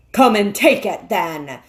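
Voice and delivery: loud, defiant bellow. Acted. The bull-man defying the witch, bellowing. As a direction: roar out the dare. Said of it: "in a great bellowing voice".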